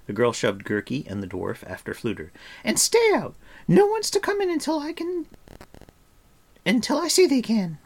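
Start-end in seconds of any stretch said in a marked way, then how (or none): 2.6-7.8 high, loud order; bossy. A narrator's reading. Girl orders everyone out of the room, loud and bossy. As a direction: shut the door on them firmly.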